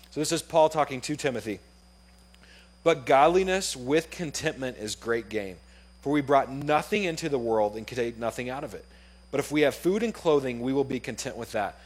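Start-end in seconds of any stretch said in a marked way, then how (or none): 2.8-11.7 solemn Bible reading; scripture reading. Acted. Reads scripture aloud.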